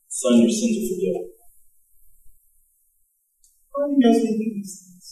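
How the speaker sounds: a soft, tender hush; quiet. Retold or imitated. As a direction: drop it down gently into the silence.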